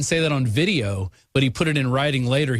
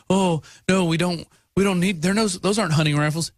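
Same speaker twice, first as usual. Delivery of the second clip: lightly voiced whiny objector, a bit higher; mocking gun critics; 4 semitones higher than usual. Host mocking Facebook critics of AR fifteens, mild whiny sneer. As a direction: poke fun at the naysayers with a mild sneer. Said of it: "on, uh, Facebook who say".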